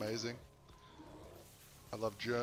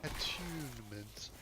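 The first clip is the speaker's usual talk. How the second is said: "Attunement" as ə-TYOON-ə-ment, slow and soft, British-style; "Attunement" slowly, in a put-on British accent; slow mock British "Attunement"; British/Australian accent; 5 dB quieter, slower than usual. Shown as a demonstration. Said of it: "would you like me to say attunement".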